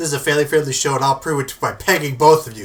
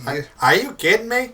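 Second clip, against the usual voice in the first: put-on southern accent; 5 semitones higher than usual. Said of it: "Do a southern accent for real".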